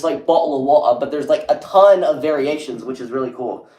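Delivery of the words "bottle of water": put-on lightly caricatured British accent; quick stock imitation of a British accent; mock British accent. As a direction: toss in a stereotypical British accent. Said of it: "when they hear the accent, it's all just".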